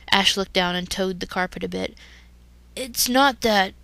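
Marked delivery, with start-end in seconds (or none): 2.7-3.7 stumbling nervously. Acted. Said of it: "he stumbled".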